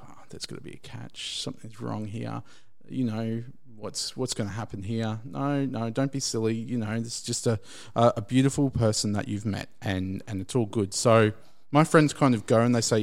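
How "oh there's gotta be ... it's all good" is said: hushed, half-whispered worrying to himself; nervous inner thoughts. Retold or imitated. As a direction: talk yourself down under your breath.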